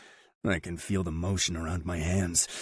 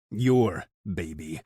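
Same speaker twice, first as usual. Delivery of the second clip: inner growl; slower than usual. A narrator's reading. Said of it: "the possessive voice inside me growls".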